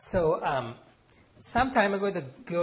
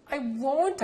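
loud, much higher defiant outburst; defiant cry; 13 semitones higher, 7 dB louder than usual. Acted. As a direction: refuse your mother loudly. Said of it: "I cried defiantly".

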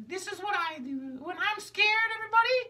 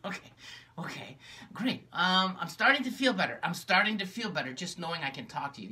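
gloomy low puppet; 14 semitones lower than usual. Acted. Magenta tells her sister how lonely she is, low and gloomy. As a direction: sigh it out like a sad puppet.

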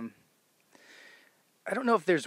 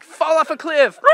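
much higher, much louder goblin shout; goblin yell; 13 dB louder than usual. Retold or imitated. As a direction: bellow it like a goblin falling. Recalls screaming goblin lines.

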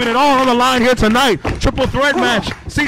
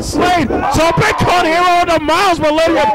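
excited shout; 5 semitones higher, 3 dB louder than usual. Real, not acted. Commentator hyped by dive.

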